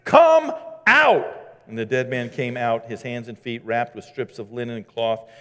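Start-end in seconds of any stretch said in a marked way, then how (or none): 0.0-1.4 a high, ringing shout of a name; Jesus calling loudly into the tomb. Acted. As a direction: call him out of the tomb at full voice. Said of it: "called in a loud voice".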